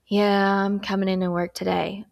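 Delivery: flat, reluctant yes; unenthusiastic. Shown as a demonstration. Teacher demos a reluctant reply to the boss. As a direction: sound like you'd rather not go. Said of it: "I want you to listen to the volume and tone here".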